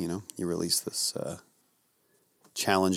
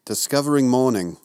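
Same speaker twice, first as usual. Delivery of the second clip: put-on English accent, higher and louder; affected English accent; 4 semitones higher, 6 dB louder than usual. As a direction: proclaim it in a mock English accent. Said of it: "do an English accent".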